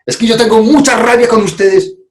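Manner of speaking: high, earnest statement of anger; owned anger. Shown as a demonstration. Speaker repeats the owning example, high earnest tone. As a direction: say it as your own feeling. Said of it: "Cuando uno aquí dice".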